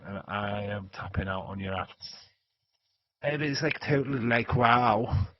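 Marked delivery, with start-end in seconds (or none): 3.2-5.3 mock gushing American mean-girl talk. Mocking a wrestler's talk, hammed-up mean girl. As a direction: gush emptily like an airhead. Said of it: "You sound like a mean girl".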